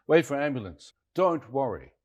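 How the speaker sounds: imitated dismissive Chinese man. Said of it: "He looked at me, put his hand on my shoulder".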